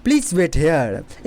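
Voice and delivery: very slow, with the R silent; slow classroom demo; slow teaching delivery. Shown as a demonstration. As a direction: model it slowly for learners. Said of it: "इस type से बोलना है".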